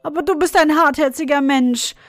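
put-on tearful girl. A narrator's reading. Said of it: "rief Marie weinend".

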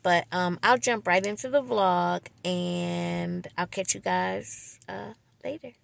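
lisping from veneer cleaner. Real, not acted. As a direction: talk with a slight lisp. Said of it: "Excuse the lisp in my voice".

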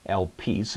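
"elpis" with the accent on its second syllable, el-PIS; stress on second syllable. Shown as a demonstration. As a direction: lean on the last syllable of "elpis". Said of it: "the accent here is on the second syllable".

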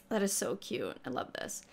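whispered softly. Real, not acted. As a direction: breathe it out in a whisper. Whispered aside.

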